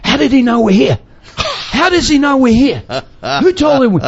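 high-pitched mock alarm; alarmed villagers. Witch doctors to each other on being discovered, mock alarm. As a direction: act out startled plotters caught in the act. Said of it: "and they go".

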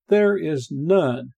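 "none" drawn out slowly with a firm fall; slow, weighty emphasis on "none"; stress on NONE. Shown as a demonstration. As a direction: land hard on "none" to close the point. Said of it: "Paul emphasizes that".

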